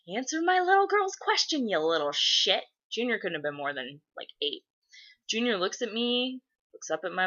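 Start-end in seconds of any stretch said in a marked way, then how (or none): 0.1-2.6 high-pitched indignant retold demand; acted-out parental scolding, pitch jumping up; mock angry demand. Adult demanding the boy answer a little girl, mock angry. Acts out adult confronting child.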